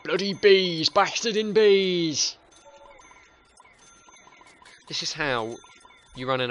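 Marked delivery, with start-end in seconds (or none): 0.0-2.4 high, loud panicky yelling; mock panicked gardeners. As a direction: yell like gardeners swarmed by bees. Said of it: "they're like".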